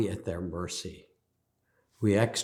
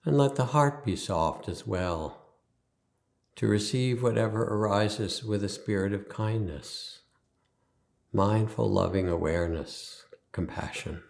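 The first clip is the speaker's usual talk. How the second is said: guided meditation. Acted. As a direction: ease them into stillness, leaving space after each instruction.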